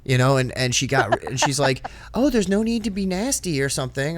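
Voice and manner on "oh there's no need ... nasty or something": high-pitched mock offence; offended lady. Lady scolding him for being nasty, mock offended. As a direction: imitate her in a raised, affronted voice.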